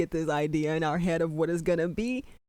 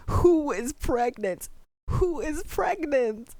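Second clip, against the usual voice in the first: frantic rising disbelief; 8 semitones higher, slower than usual. Real, not acted. Frantic reaction to twist.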